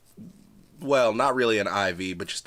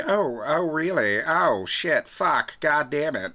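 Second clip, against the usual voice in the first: higher, exasperated swearing; mock dismayed surprise; 7 semitones higher, 4 dB louder, slower than usual. Cam dismayed at marrying the coterie, mock surprise. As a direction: caught out and cursing.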